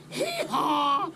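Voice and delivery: high laughing mock shout; laughing hee-haw yell. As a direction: yell it like a donkey bray. Retells falling in.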